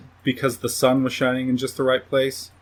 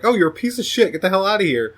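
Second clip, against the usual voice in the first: mock disgusted telling-off; 5 semitones higher, faster than usual. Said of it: "she's like".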